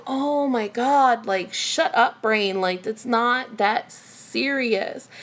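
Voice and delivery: slow, drawn-out mock exasperation; exasperated. Telling her own brain to shut up, exasperated. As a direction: scold yourself, stretching the words out.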